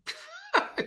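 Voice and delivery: short high mock laugh; retold scoffing laugh. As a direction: laugh it off as the doubtful friend. Retold friend scoffs before agreeing.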